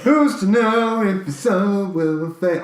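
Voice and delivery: slow, overwrought dramatic line; bad acting. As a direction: ham it up like a bad actor. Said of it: "I'm a terrible actor".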